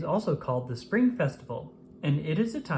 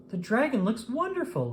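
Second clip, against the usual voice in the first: delighted Lily; 7 semitones higher than usual. A narrator's reading. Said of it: "Lily said".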